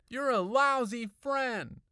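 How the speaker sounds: high, loud, drawn-out accusation; angry shout. A narrator's reading. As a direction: hurl it at the friend, furious. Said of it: "and I added".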